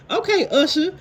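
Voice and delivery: high, giggling "Okay, Usher"; retelling the joke through laughter; laughing quote. Retold or imitated. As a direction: laugh through the mocking line. Repeating the quote while laughing.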